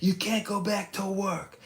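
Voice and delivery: high, slow mocking politician voice; hammed-up impression of a preachy vaccinologist; Darren LaHood. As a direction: drag out a high-pitched mock proclamation. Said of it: "a vaccinologist who said".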